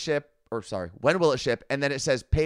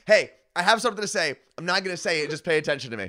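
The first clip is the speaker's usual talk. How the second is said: mocking Carla Marie; 4 semitones higher, faster than usual. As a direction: lightly parody a friend's announcement. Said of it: "the most Carla Marie announcement".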